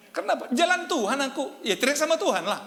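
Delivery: high, loud, emphatic preaching; full-force preaching. Real, not acted. Preacher urges congregation to shout to God, loud and forceful.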